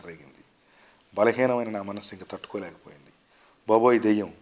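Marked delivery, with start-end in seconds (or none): 3.7-4.3 loud, panicked cry of ghost; a scream of fright at a ghost in the dark; terrified scream. A narrator's reading. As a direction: shriek it out in sudden terror. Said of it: "అని అరిచి".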